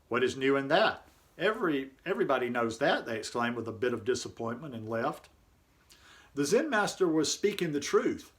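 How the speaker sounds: measured, even read-aloud narration; composed reading of a reflective article. A narrator's reading. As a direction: read it out evenly, pausing between sentences.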